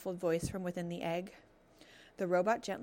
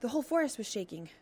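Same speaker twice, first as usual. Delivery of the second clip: panting; 4 semitones higher, 3 dB louder, faster than usual. Acted. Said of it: "the fox panted".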